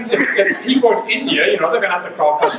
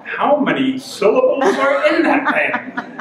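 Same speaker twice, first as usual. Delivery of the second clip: mock bewilderment; 6 semitones higher, slower than usual. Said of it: "that I'm going".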